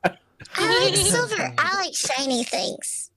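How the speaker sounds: slow, dreamy greedy drawl. Acted. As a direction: savor each word like treasure. Greedy character line.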